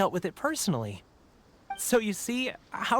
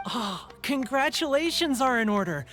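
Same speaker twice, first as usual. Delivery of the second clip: raised, hearty congratulations; congratulatory; 4 semitones higher than usual. Acted. Stall keeper to a lucky customer, congratulatory. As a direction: celebrate the customer's lucky draw.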